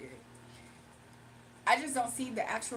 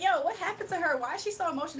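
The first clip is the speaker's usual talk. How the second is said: higher, louder nosy gossip; mock gossiping onlooker; 5 semitones higher, 3 dB louder, faster than usual. Viewers gossiping about her tears, nosy. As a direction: gasp it out like a nosy bystander. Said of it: "They be like".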